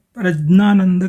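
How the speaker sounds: प्रज्ञानंद with j plus n; variant pronunciation. Shown as a demonstration. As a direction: say प्रज्ञानंद as "praj-naanand". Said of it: "कुछ लोग प्रज्ञानंद कहते हैं".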